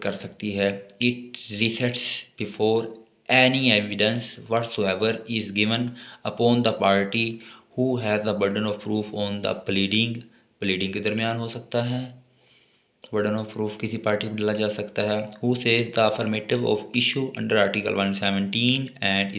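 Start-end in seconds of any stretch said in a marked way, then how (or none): 1.0-10.1 reads the statute slowly, word by word; slow dictation. Acted. Teacher slowly dictating law text to note-taking students. 15.4-19.3 reads the statute slowly, word by word; slow dictation. Acted. Teacher slowly dictating law text to note-taking students.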